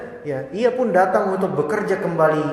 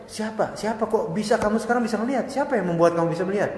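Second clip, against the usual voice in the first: mild astonished questioning, a little higher; king asking in disbelief, understated; puzzled king; 3 semitones higher, 5 dB quieter than usual. Acted. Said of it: "Dia tanya keheranan".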